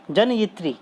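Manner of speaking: "जनयित्री" as jan-yi-tree, with a clear ee; careful "tri" ending. Shown as a demonstration. Teacher giving a like example, "जनयित्री" with a clear tri ending. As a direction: sound out "जनयित्री" with a full tri at the end. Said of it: "फिर उसी प्रकार से".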